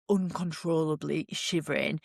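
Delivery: ordinary talk, nothing marked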